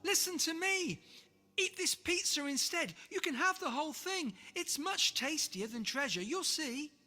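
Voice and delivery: high, loud urgent shout. Acted. George shouting at the sea monster to take pizza, loud. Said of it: "George shouted".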